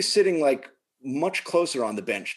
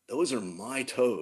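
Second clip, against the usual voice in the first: slow, softer retold punchline; deadpan calm; 3 semitones lower, 7 dB quieter, slower than usual. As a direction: say it slowly and evenly, setting a quiet boundary. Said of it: "all I say to him is".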